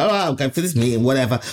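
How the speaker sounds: offhand, indifferent shrug in the voice; unexcited. Retold or imitated. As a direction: toss it off without enthusiasm. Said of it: "I wasn't that excited".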